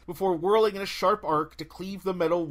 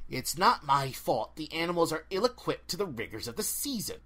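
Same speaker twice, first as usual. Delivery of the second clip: cold, ancient forest spirit; haughty dryad. Acted. Dryad speaks at length.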